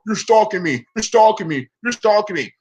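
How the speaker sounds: high mock whine; Tommy. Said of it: "complain and bitch and whine and moan".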